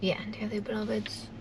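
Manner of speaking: soft, whispered, breathy voice.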